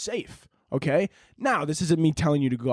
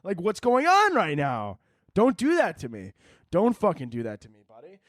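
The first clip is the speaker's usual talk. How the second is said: higher, disbelieving, slowed challenge; incredulous callout; 4 semitones higher than usual. Retold or imitated. To a masked man trailing kids, incredulous scolding. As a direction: call out the creepy guy in disbelief. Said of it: "and I'm like".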